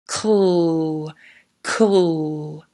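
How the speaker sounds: cl said slowly, the c and l blended into one low, soft sound. Shown as a demonstration. Teacher sounding out a blend for children, slow and clear. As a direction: sound out cl for the class. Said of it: "blend those together to make the first sound".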